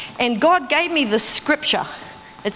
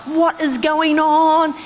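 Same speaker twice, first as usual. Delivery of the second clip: exasperated; 5 semitones higher, 3 dB louder, much slower than usual. Retold or imitated. Calling the financial advisor.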